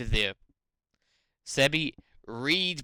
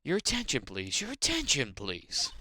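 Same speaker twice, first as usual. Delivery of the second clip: ordinary talk, nothing marked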